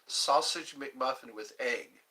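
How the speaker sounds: sausage McMuffin with egg, said slow and careful; careful slow order; slowly. Shown as a demonstration. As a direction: spell out each word of sausage McMuffin with egg. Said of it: "I have to say it slowly".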